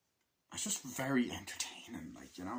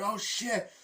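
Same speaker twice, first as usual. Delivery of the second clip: mock shock; 12 semitones higher, 3 dB louder than usual. Imitated soldier reaction.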